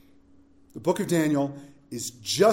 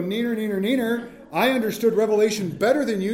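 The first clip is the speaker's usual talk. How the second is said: taunting; 4 semitones higher than usual. Retold or imitated. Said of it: "look at him and go".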